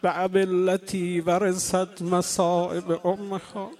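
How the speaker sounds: slow, chanted Arabic verse; slow solemn chanting of the line; recited verse. Shown as a demonstration. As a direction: draw the verse out slowly like a recitation. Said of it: "اون شاعر عرب میگه".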